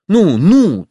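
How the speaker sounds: urgent, pressing "ну, ну"; hurrying. A narrator's reading. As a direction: hurry her along impatiently. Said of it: "торопила Кити".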